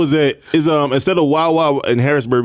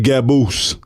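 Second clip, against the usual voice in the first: Miami talk. Retold or imitated. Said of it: "Them niggas just talk like that".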